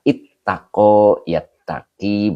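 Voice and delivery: ittako and yattaki spelled out slowly, the doubled t held; slow teaching recitation of ittako, yattaki; drawn-out drill. Shown as a demonstration. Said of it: "Ya, jadi ifta'ala".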